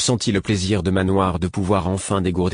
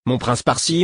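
mocking angry echo; 5 semitones higher than usual. A narrator's reading. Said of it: "s'exclama-t-il avec colère".

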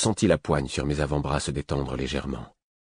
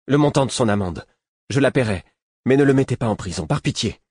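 higher, louder anxious plea; pleading boy; 7 semitones higher, 4 dB louder than usual. A narrator's reading. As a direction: beg the officer for mercy. (supplication d'un garçon inquiet)

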